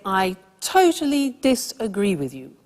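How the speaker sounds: emphatic, firm objection; aggressive disagreement. Shown as a demonstration. Teacher demonstrates aggressive disagreement to learners, emphatic. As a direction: push back hard on their opinion. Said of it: "if you want to be aggressive".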